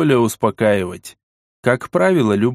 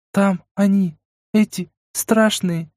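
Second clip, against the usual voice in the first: put-on higher, slow, frightened girl; trembling voice; 8 semitones higher, slower than usual. A narrator's reading. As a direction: let the voice catch with fear. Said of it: "дрогнувшим голосом произнесла она". (дрожащим голосом)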